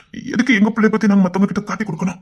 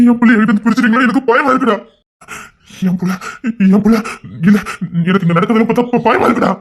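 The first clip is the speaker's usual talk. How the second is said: frightened, broken sobbing plea; desperate parent close to breaking; tearful, crying. Acted. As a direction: cry it out in choked, halting bursts. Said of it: "அழாதண்ணே".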